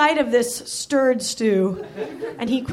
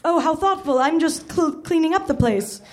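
higher granny voice, tripping on words; stuttering old nanny; 4 semitones higher than usual. Acted. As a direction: babble an excuse as the nanny. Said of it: "Missus Doubtfire stuttered".

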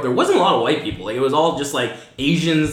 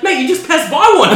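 loud, high imitation Kiwi accent; raised-voice New Zealand accent; 12 semitones higher, 6 dB louder than usual. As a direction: exclaim it like an exasperated Kiwi cousin. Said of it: "Your Kiwi accent is almost there".

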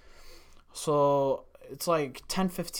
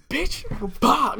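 high, loud angry outburst; furious curse; 11 semitones higher, 9 dB louder than usual. Retold or imitated. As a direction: blurt it out in a rage. Guard furious after carrots thrown.

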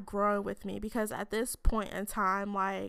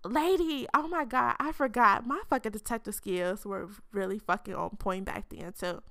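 tipsy. Real, not acted. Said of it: "I'm tipsy".

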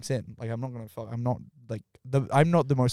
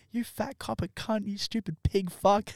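higher, slow mock tirade of the girl; girl going off; 9 semitones higher, 3 dB quieter, slower than usual. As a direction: play the girl cursing out the cop, slowly. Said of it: "The girl with me goes off".

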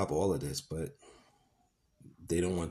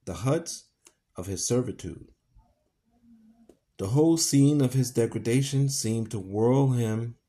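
steady, earnest reading of a novel; story narration. A narrator's reading. Reader telling Tom's moment of hope, earnest narration. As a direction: read the passage with weight.

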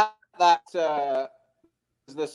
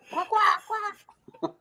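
high-pitched quacks; short mock bird noises; imitated quacking.

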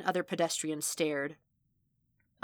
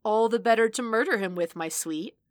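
mock menacing; 4 semitones higher, 5 dB louder than usual. A narrator's reading. Wolfish joke, big bad wolf.

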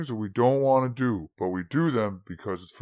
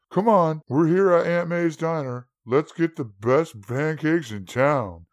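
bright upbeat call; happy announcement of pancakes; cheerful; 4 semitones higher, 5 dB louder than usual. Acted. Grandpa cheerfully arrives diner.

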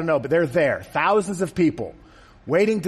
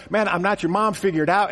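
regular guy Jesus; 3 semitones higher than usual. Retold or imitated. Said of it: "then he says".

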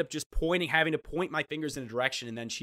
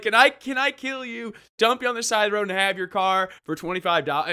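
mock sinister; 8 semitones higher, 5 dB louder than usual. To the driver, mock sweet murderous request. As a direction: say something awful in a sweet tone. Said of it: "I could have been like".

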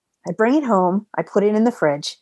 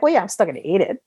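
rapid defensive; faster than usual. Retold or imitated. Retold defensive reply.

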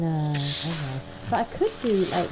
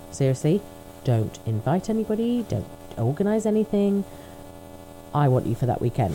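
bossy partner. Retold or imitated. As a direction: lay down the law firmly. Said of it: "God, so dominant".

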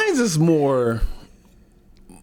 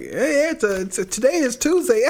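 higher, put-on phone-friendly voice; mocking client voice; 6 semitones higher than usual. Co-host imitating Twilla with clients, mocking. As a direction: parody her talking to a client. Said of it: "This is the Twiller when she's talking to the client".

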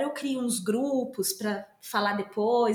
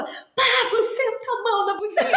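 high, louder laughing call to Pablo; excited yell; 11 semitones higher, 3 dB louder than usual. Retold or imitated. Cheering Pablo to hit the horn, high and laughing. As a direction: egg him on through laughter. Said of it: "Mas aí eu falava".

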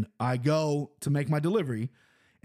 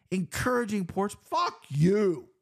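angry snap; 5 semitones higher, slower than usual. Real, not acted. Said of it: "set me off".

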